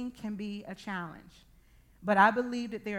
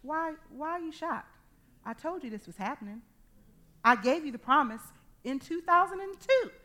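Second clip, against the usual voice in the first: God's gentle rebuke; 2 semitones higher than usual. Retold or imitated. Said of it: "God is just looking at this like".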